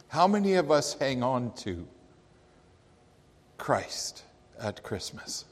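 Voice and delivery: preacher whispering the key question to the congregation; whispered question. Acted. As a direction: let the question sink to a whisper. Repeated sermon question, whispered end.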